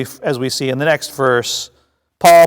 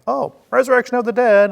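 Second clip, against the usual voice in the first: higher and louder, a hammed-up outcry; mock outcry; 10 semitones higher, 5 dB louder, faster than usual. Paul distracting the council, hammed-up louder outcry. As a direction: blurt it to start a fight. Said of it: "He's like".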